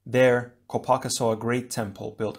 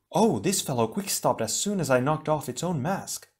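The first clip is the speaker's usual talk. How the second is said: Leiwa voice; 5 semitones higher than usual. Acted.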